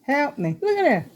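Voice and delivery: high, urgent cry for help; real alarm watching the leak; real panic. Real, not acted. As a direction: panicky plea, voice jumping up. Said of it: "I'm panicking".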